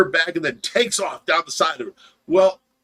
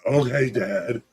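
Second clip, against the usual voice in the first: low-pitched, rising mock agreement; compliant son; 7 semitones lower, slower than usual. Josh answering his dad's push-start plan, compliant son. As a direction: imitate a son going along with it. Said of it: "He's like".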